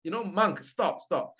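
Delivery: mock shout. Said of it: "when he shouts".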